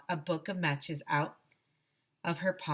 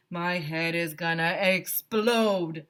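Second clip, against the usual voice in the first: shouted; 4 dB louder, slower than usual. A narrator's reading. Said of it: "I shouted".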